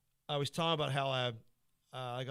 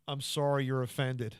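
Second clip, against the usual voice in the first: fake apology; 5 dB louder, slower than usual. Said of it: "I didn't say I was sorry".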